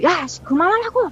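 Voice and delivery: high-pitched, fed-up mock yell; retold irritated outburst. Sister snapping at brother's pranks, mock irritated anger. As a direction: act out annoyance boiling over, pitch way up. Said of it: "너무 짜증나가지고".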